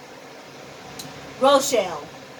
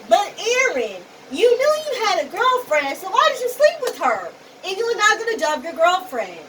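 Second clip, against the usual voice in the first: exasperated scolding; 5 semitones higher than usual. Real, not acted. Scolding Aaron over cheating.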